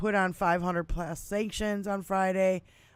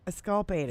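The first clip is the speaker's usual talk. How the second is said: "exculpated" with misplaced stress; "exculpated" stressed wrongly on a later syllable; 3 semitones lower than usual. Real, not acted. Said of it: "doing the emphasis on the wrong syllable".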